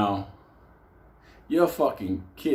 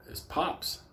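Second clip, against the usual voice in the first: whisper; 8 semitones higher, 7 dB quieter than usual. Retold or imitated. Whispered mention of father.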